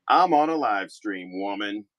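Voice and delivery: hammed-up macho retort; mock gruff husband. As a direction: play the mock tough guy snapping at the wife. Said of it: "I don't really talk like that".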